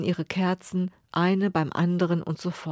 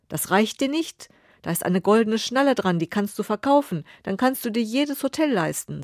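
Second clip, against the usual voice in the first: angry king; 4 semitones higher than usual. Acted. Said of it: "Der König ist wütend".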